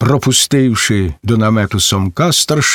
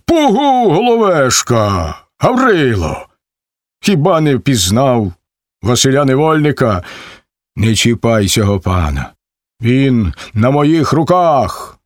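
raised, pleading command; urgent call. Acted. Vasyl stops the ataman from killing Cherevan, urgent. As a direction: hold him back firmly.

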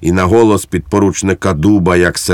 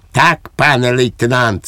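higher-pitched, untroubled agreement; Švejk, unworried; 5 semitones higher than usual. A narrator's reading. Soldier caught by the lieutenant answers him, quite unconcerned. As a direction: agree readily, without the least concern. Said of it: "сказав Швейк без найменшого занепокоєння".

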